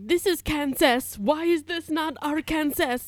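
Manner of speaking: high, loud, slow baffled voice; confused vine voice. Retold or imitated. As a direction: play it dumb and confused. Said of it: "that vine that's like".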